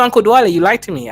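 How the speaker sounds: ordinary talk, nothing marked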